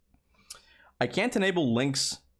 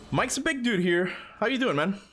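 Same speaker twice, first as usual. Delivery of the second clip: excited greeting; 10 semitones higher than usual. Real, not acted. Greeting viewer Mike.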